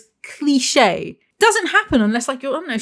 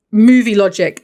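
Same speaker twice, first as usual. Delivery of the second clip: scornful verdict; 7 dB louder than usual. Real, not acted.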